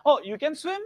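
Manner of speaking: high rising Indian English question. Retold or imitated. Teacher imitates how Indians say it, high rising Indian English. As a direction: mimic the Indian subcontinent lilt, high. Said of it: "How do you say?".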